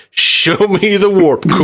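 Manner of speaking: slow, high-pitched mock command; fan quoting Picard. Retelling a Star Trek fan's request, slow mock order. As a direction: intone it like a starship captain, slowly. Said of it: "and he's like".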